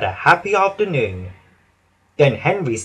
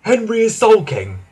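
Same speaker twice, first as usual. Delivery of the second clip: station master voice; 8 semitones higher than usual. Acted. Station master warning the Fat Controller about the shed, raised voice. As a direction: report trouble to the boss, a bit anxious. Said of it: "he said".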